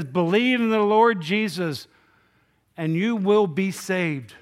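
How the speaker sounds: ringing declaration from the pulpit; emphatic proclamation. Acted. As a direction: proclaim it to the whole room, each word drawn out. Proclaiming Paul's answer emphatically.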